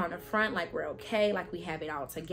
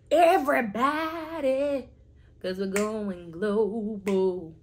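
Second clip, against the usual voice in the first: excited shout; 6 dB louder, slower than usual. Acted. Big closing call.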